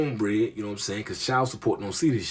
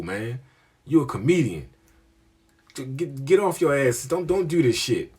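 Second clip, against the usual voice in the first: put-on drilling old head; 3 semitones higher than usual. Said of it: "This nigga was drilling me".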